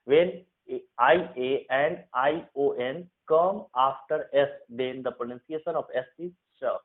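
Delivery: slow, deliberate rule dictation. Shown as a demonstration. Teacher to Hindi students, dictating the rule slowly. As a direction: spell out the rule word by word for students.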